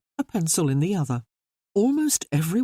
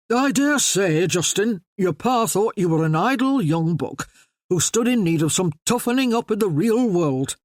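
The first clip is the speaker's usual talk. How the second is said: a light touch of a bluff Yorkshire gentleman, a bit louder; hearty Yorkshire voice; 4 semitones higher, 4 dB louder than usual. Acted. Yorkshireman easing an awkward dinner silence, hearty Yorkshire voice. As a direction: play a jovial Yorkshireman breaking the silence. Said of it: "in his usual hearty Yorkshire voice".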